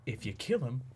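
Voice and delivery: long yelled no, then mock pleading; hammed-up movie villain, shouted then drawn out; Riddler impression. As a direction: cry no, then draw out the plea. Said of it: "he goes".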